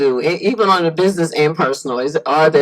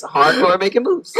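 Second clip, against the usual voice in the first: laughing repeat; 13 semitones higher than usual. Real, not acted. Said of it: "there it is".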